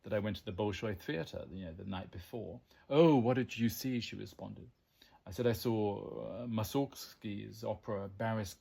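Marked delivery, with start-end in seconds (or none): 2.9-4.0 louder, lightly acted exclamation; eager retold question. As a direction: pipe up with keen interest, imitating her. Acting out coffee seller's eager reply.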